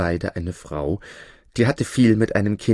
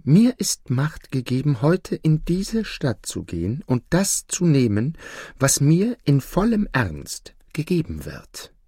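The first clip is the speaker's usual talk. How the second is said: higher-pitched devil voice; 5 semitones higher than usual. Acted. Devil explaining his errand to the judge, high-voiced. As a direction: explain your power, pitched up.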